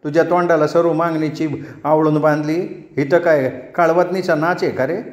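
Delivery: wife rounds on the grinning man, scolding; scolding tirade. Acted. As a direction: let loose a string of insults at him. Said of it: "तिने तोंडाचा पट्टा सोडला".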